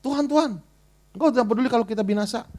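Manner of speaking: brisk quoted cry to the Lord; disciples' plea, read as scripture. Retold or imitated. Preacher quoting disciples waking Jesus, brisk quoted plea. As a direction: read the disciples' words quickly, as written. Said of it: "mereka bangunin Tuhan Yesus".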